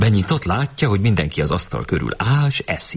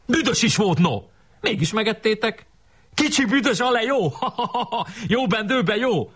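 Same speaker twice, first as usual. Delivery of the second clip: high-pitched mocking schoolboy voice with laughter; hammed-up gleeful taunting; acted jeering. A narrator's reading. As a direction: tease them, breaking into a cackle. Boys jeer at those who ate polish.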